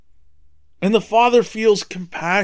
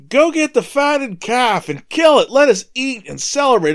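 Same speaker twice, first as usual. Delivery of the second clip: joyful father's command; 8 semitones higher, 4 dB louder than usual. Acted. Father calls for a feast.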